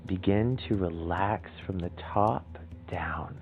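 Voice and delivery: calm, measured relaxation guidance with long pauses; soothing meditation leader, unhurried and gentle; guided meditation. Acted.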